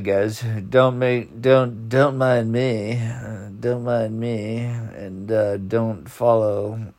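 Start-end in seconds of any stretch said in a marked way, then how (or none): 1.4-6.9 slow, drawn-out words through a yawn; fighting back a yawn as he speaks; sleepy yawn-stretched apology; yawning while talking. Real, not acted. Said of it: "I cannot stop yawning".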